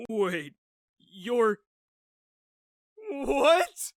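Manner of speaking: high squeaky squeal. Acted. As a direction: squeal like a frightened mouse. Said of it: "My voice squealed like a frightened mouse".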